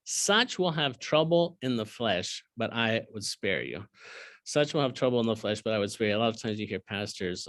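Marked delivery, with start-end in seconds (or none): 0.0-3.8 slow, weighty reading of the verse; solemn scripture reading. Acted. Teacher reading the verse slowly to his class, solemn. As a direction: let the warning sink in. Read slowly then repeated plainly.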